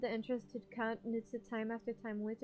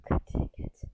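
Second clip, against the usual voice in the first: loud, exasperated groan of a curse; frustrated outburst; 12 dB louder than usual. Real, not acted. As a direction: vent the loss in one burst. Frustrated at character death.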